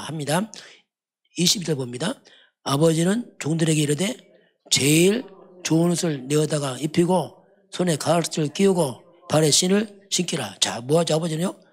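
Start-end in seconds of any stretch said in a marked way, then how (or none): 2.6-10.6 solemn, unhurried Bible reading, slowing at the end; measured pulpit reading; scripture reading. Acted. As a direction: read the father's command from the pulpit. Reads the father's command aloud.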